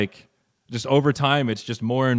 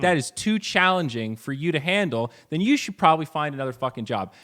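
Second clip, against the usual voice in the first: aggressive rant; 4 semitones higher than usual. Retold or imitated. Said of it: "He didn't say it that aggressively".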